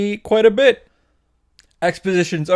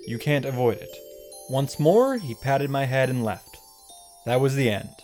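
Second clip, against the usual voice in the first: softer, measured storytelling; solemn flashback narration; 2 semitones lower, 5 dB quieter than usual. Acted. Recapping a father's farewell to his daughter, solemn narration. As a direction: recount the backstory with mock gravity.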